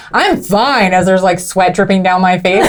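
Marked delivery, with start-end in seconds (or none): 0.1-0.9 mock insistence. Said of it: "so I was like".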